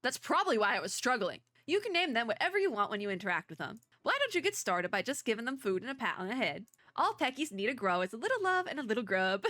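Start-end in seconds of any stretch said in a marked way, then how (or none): 1.7-9.4 bad Southern accent. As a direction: read it as a folksy Southerner, badly. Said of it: "the really bad Southern accent".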